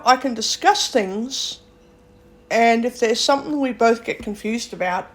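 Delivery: ordinary talk, nothing marked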